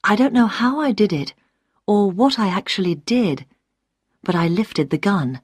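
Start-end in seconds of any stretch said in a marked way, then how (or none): none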